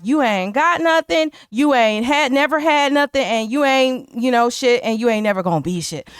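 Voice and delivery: imitating Mickey tearing him down; mock furious put-down. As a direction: spit out her insult with a lifted pitch. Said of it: "which is like".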